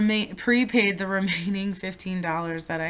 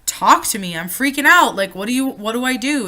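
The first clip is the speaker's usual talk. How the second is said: loud, rising panic on the phone; begging her boyfriend for help, voice climbing; panicked plea; 5 semitones higher, 9 dB louder than usual. Retold or imitated. Caller freaking out to boyfriend, panicked and loud. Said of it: "I called Jimmy crying".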